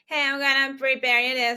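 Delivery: irritating high, loud woman's voice, chattering.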